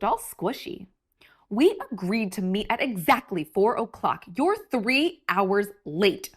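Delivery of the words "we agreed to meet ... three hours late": fuming. Acted. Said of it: "fuming and furious".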